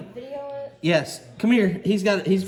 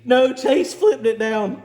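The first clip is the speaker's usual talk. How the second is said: laughing; 8 semitones higher, 4 dB louder, slower than usual. Real, not acted. Laughing after painful fix.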